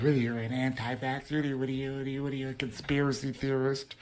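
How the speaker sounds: mocking the people who call him an anti-vaxxer. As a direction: sneer at the mocker in a put-on voice. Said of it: "And you're like".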